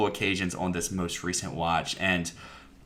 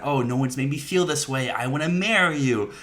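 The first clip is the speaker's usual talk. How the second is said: mildly pleading, raised pitch on the vow; love confession; 4 semitones higher than usual. Retold or imitated. Duncan confessing his love to Bella on the boat, mock-earnest. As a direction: lift it into a retold declaration of love.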